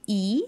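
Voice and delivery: long, tense "ee" for "e"; long vowel. Shown as a demonstration. Contrasting long and short sounds for learners, long vowel. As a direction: stretch "e" into a long ee. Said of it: "long and short sounds like".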